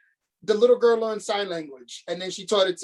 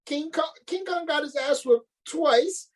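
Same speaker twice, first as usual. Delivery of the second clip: teasing the little brother, pitched up; hyped rant; 6 semitones higher than usual. Retold or imitated. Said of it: "I was like".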